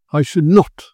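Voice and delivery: "not" punched loud in "I should not"; emphatic. A narrator's reading. Narrator agreeing with his companion, emphatic "not". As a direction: come down hard on "not". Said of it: "I said emphatically".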